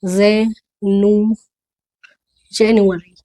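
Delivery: जेनु- drawn out slowly, then जनवरी as "jen-yu-ary"; syllable-by-syllable English pronunciation. Shown as a demonstration. Teacher breaking January down, syllable-by-syllable English pronunciation. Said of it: "इसको ऐसे बोलिए".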